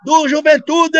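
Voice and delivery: hammed-up announcer unsure of the scorer; announcer shouting. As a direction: bark the question like a confused commentator. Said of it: "Aí o locutor".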